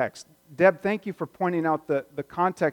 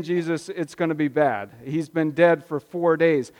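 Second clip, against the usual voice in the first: doubting; 4 dB louder than usual. Retold or imitated. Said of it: "That's doubt".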